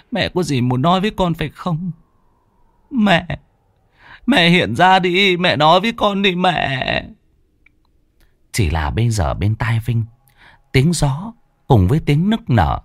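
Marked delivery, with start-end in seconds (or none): 0.1-7.1 higher, rising, tearful plea; begging his mother to appear; desperate pleading. Acted. Son begging dead mother. (con trai khẩn thiết van xin mẹ hiện về)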